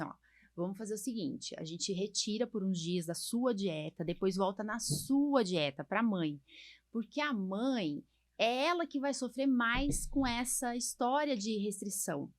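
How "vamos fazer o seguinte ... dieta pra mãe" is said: calm advice to mother. Retold or imitated. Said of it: "geralmente eu falo assim".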